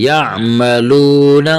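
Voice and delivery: "یا" closed with a throat ayn before "ملون"; throaty ayn stop after "یا" in "یا ملون"; clear ayn. Shown as a demonstration. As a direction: catch the ayn at the end of "یا", then draw out "ملون". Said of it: "عین کی آواز نکالنی ہے".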